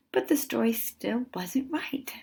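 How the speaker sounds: slow disappointed whisper; whispered letdown. A narrator's reading. Girl admitting her story still fails, whispered. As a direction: breathe it out, let down.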